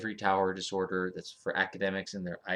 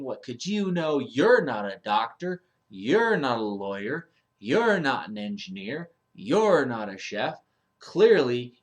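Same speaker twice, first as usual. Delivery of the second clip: condescending expert; 3 semitones higher, 4 dB louder than usual. Retold or imitated. Arrogant expert dismissing a layperson.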